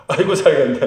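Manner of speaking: retold catchphrase through a laugh; laughing, quick imitation; amused imitation. Laughs while imitating friend's new catchphrase.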